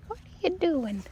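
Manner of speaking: high coaxing question. Real, not acted. To a lopped-over tomato plant, a high soft teasing question.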